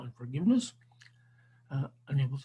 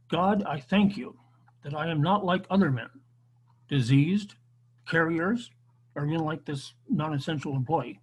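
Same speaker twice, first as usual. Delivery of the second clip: self-righteous Pharisee; 4 dB louder than usual. Acted. Teacher voicing the covid-era Pharisee praying to God, mock self-righteous. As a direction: pray aloud with mock self-righteous pride. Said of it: "This is the updated version of the parable".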